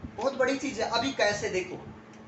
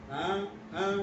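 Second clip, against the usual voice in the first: dismissive yeah yeah; 3 semitones lower, 4 dB quieter than usual. Shown as a demonstration. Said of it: "अच्छा बड़े आए हो समझाने".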